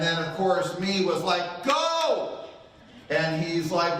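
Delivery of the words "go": sharp high yell of Go; high-pitched urging yell at the son; urging shout. Retold or imitated. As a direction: shout at him to step on it. Dad yelling at son.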